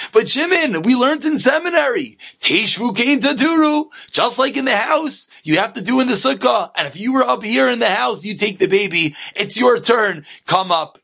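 lightly acted wifely insistence; arguing wife.

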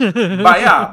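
high, loud "Baya"; hammed-up loud "Baya" to the Saint Leo girls; loud exclamation. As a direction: call it out like a cheer.

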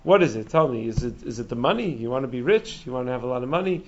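gently quoted calm questions; imitating an unruffled rabbi; calm questioning. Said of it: "spoke to her very calmly".

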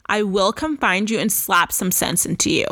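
"come" leaned on in a mock-stern threat; playfully menacing, not meant; half-joking threat to slap sense into them. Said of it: "But I'm a nonviolent person".

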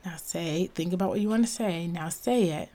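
soft, hushed coaching of herself; quiet inner pep talk, half whispered; calming self-talk. Retold or imitated. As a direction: talk yourself down gently, dropping into a whisper. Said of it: "and be like".

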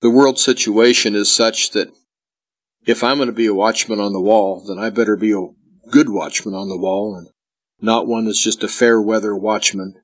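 sluggish, tired sick voice; slow talking. Real, not acted. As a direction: drag the words like you have a fever. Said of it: "if I sound a little draggy".

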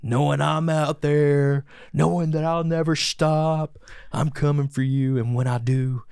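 slow, measured villain monologue; a hint of a gloating villain; slow theatrical villain menace. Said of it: "his little villain monologue".

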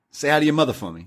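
a light hint of a tough-guy Wahlberg, the word hi lifted; Mark Wahlberg line. Quoting the classic Mark Wahlberg line to his cohost, lightly voiced. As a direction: toss off the famous line with a slight swagger. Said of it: "the classic Mark Wahlberg line".

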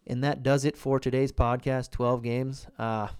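out of breath, winded. Real, not acted. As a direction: talk while out of breath. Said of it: "ooh, I'm out of breath".

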